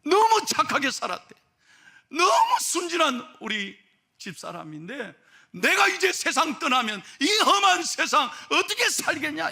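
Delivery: high, loud, pleading worry; impassioned husband. Retold or imitated. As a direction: build to an anguished appeal for his wife. Husband frets over naive wife.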